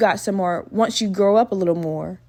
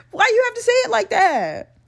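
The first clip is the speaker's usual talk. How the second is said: very high-pitched comic wail; exasperated high protest; 12 semitones higher than usual. Real, not acted. Podcaster objecting to his wording, high exasperated wail. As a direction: repeat it as a high, exaggerated complaint. Repeats complaint in high whine.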